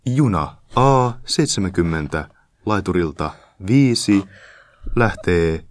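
slow, loud public-address announcement; train station announcer. Shown as a demonstration. Showing off his voice to the co-host, station announcer. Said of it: "Anna joku".

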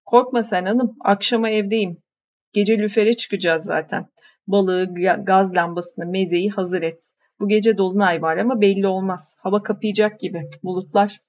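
easygoing fisherman calming his wife; lightly voiced fisherman. Yakup reassuring his wife before heading out to fish.

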